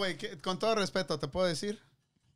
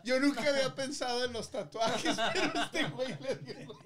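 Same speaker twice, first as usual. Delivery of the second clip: laughing while talking. Real, not acted. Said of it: "lo que me dio risa".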